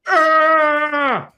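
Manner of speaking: loud, high mocking cry in an imitation of Stephen Hawking. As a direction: belt out a cartoonish strained cry. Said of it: "Stephen Hawking is literally like".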